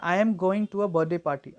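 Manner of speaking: key words of "I am going to a birthday party" stressed; slowly weight "going" and "birthday party"; sentence stress demo. Shown as a demonstration. Teacher reading highlighted words to learners, content words stressed. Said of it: "जो आपका ज़्यादा high-, highlighted है".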